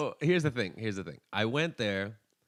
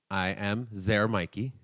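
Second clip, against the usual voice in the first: slow, mock Russian intro; hammed-up Russian accent; slower than usual. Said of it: "her Russian thing".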